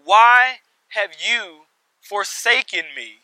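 loud, measured cry to God, short of a scream; preacher's restrained version of an anguished scream; retold outcry. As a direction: call it out loudly, slowing on the question. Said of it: "he screams out".

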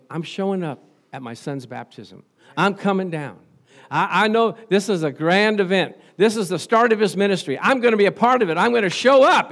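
pastor as God, rising to a proud proclamation; God announcing. Acted. Pastor voicing God at his son's baptism, building excitement.

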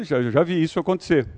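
ordinary delivery

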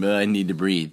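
firm demand for air; urgent plea; pressing need. Shown as a demonstration. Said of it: "or I'm".

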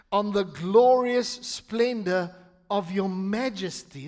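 slow psalm reading with weighted key words; emphatic scripture reading. Acted. Pastor reading the psalm to the church, slow and emphatic. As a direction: read it grandly, pausing between phrases. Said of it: "read it with emphasis on different things".

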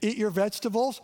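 lightly voiced parent giving an order; parent to kids. Parent telling the kids, a hint of firmness. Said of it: "Tell your kids".

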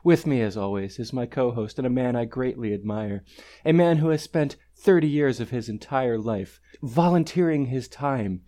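hushed, earnest NPR-style intro, hammed up; NPR host parody. Host introduces the show and co-host in mock NPR voice. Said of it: "that's how they talk".

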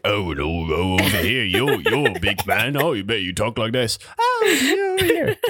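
put-on British voice, swooping up at the end; hammed-up British crowd-work patter; English comedian. Comic teasing a big man in the crowd, mock British accent. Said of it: "doing crowd work like an English comedian".

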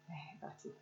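soft, low and intimate; tender self-affirmation. Acted. Talking to own mirror image, tender self-affirmation. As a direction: murmur it kindly to yourself.

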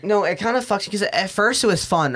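ordinary talk

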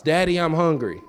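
lightly voiced whining children; a hint of kids calling for dad; whiny kids. Children calling their father with every problem, mild whine. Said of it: "they cry out when problems arise".

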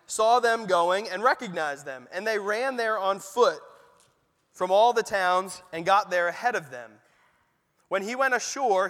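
measured, steady Bible reading voice; calm formal reading from the pulpit; scripture reading. A narrator's reading. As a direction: read the passage to the congregation with care. Reads the Gospel passage aloud.

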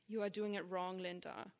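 lightly mocked German accent, measured delivery; a hint of a scolding German neighbor; mom's German neighbor impression. Mom mimicking the German downstairs neighbor, light German accent. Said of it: "That was my mom's impression of him".

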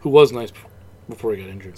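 talking with the hiccups; hiccuping mid-sentence. Real, not acted. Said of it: "I have the hiccups".

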